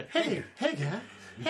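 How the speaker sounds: high, teasing "hey, hey, guy"; mock calling out. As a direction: call out in a teasing way. Mocking call to the warlock.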